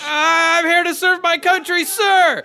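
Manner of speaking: high, loud barked answer; recruit shout. Acted. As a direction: snap it out to the sergeant.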